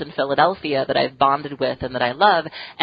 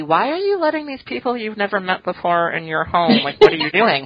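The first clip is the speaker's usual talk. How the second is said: incredulous; 6 semitones higher than usual. Retold or imitated. Imagined outsider questioning hospitality.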